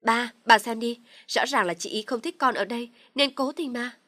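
high, loud pleading accusation. Acted. Dung loudly accuses her sister-in-law in front of her parents. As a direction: call the parents to look, loudly.

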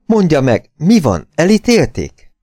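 magas hangú, izgatott kérdések; követeld izgatottan a választ; sürgető faggatás. A narrator's reading. Lány sürgetve faggatja Nelsont. (izgatott, magas hangú sürgetés)

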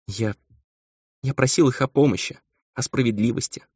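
high, halting tearful voice; acted sobbing complaint. A narrator's reading. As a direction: whimper it in broken phrases. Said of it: "всхлипывал он".

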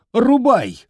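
shriek. Acted. Grandmother screaming at the boy to chop. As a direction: scream the dare.

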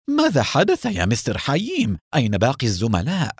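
high, anxious rush of questions; eager. Acted. Baruch rushes to question Haim, eager and worried. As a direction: blurt it out, pitch jumping up. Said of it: "وسأله بلهفة".

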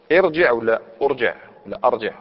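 irjiʕ, then urjiʕ, then arjiʕ; vary the first vowel of ارجع: i, u, a; three opening vowels. Shown as a demonstration. Teacher quizzing on a command form, three opening vowels. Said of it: "مثلًا واش تقول؟".

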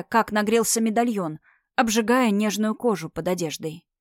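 usual speaking voice

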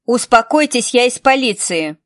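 officer shouting down a crowd; loud call. Acted. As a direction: shout over the noise. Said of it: "громко крикнула Хелен".

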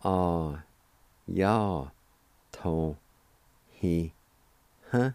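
Ah, ya, to, he, huh said as separate syllables with pauses; teacher sounding out Cherokee. Shown as a demonstration. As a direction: break the word into its syllables for learners. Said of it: "The word issue is pronounced like this".

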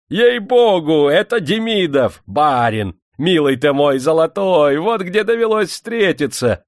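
high, loud burst of delight; fussing, delighted exclamations; joyful shouting. A narrator's reading. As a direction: cry out overjoyed at meeting an old friend. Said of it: "обрадованно закричал цыган".

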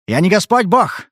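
he's fed up with her demands; irritated. Acted. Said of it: "сказал он раздражённо".

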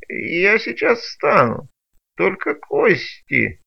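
high, slow whining broken creature; whiny creature. Acted. Creature groaning reply. (плаксивое нытьё, выше и медленнее)

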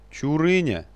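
high, loud furious cry of the name; beside himself. A narrator's reading. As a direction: stamp and yell his name. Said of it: "вне себя топнул ножкой".

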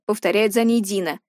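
ordinary delivery, nothing marked

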